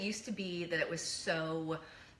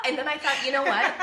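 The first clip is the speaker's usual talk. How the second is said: loud laughing exasperation; exasperated laugh; 11 dB louder than usual. Real, not acted. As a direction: laugh at the memory loudly. Laughing exasperated mom story.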